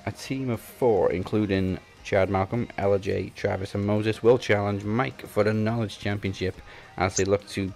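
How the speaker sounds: promo announcer voice; announcer read. Acted.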